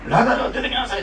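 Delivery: loud call with a laugh; Japanese version call. Retold or imitated. Repeating the Japanese wording, a laughing loud call. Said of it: "って出てこいって感じでしょ".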